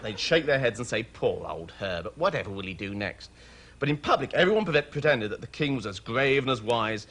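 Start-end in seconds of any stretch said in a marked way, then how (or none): 1.0-3.3 head-shaking murmur. A narrator's reading. Courtiers pitying king in private.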